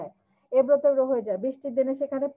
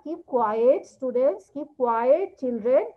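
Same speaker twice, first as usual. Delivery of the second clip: slow stretched "quiet" with a rising end; teacher telling students to keep quiet; 3 dB louder, much slower than usual. Retold or imitated. Teacher to students: long, rising "quiet". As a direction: hush the class, stretching "quiet". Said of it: "টিচাররা বলে না".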